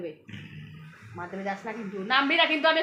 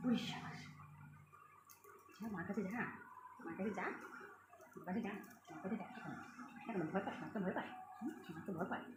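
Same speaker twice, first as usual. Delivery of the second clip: soft coaxing; 6 semitones lower, 19 dB quieter than usual. Real, not acted. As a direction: gently send the kitten to its mother. Softly coaxing the cat. (বিড়ালছানাকে আদরে নরম গলায়)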